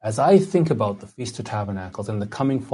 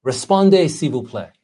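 horrible French accent; 4 dB louder than usual. Shown as a demonstration. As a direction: announce it in badly pronounced French. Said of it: "my horrible French accent".

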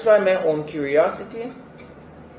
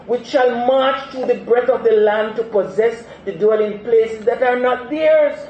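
voice of God; 6 semitones higher, 5 dB louder than usual. Acted. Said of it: "He says".

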